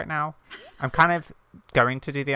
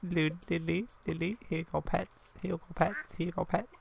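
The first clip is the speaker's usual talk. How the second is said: softer, slightly raised cooing; pet-talk; 4 semitones higher, 8 dB quieter than usual. Pretend. Player hands out pets to animals, soft cooing. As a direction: coo softly to little animals.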